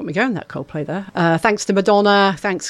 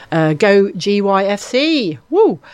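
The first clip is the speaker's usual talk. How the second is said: rally the listeners behind the team; excited cheer; 2 semitones higher, 4 dB louder, slower than usual. Real, not acted. Radio DJ cheering on Great Yarmouth FC, loud excited whoop. DJ cheers on local football club.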